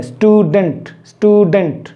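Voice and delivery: स्टूडेंट as two beats, स्टू-डेंट, said twice; split into syllables. Shown as a demonstration. Teacher giving learners another syllable example, split in two. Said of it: "अलग-अलग articulator जब use होने लग जाते".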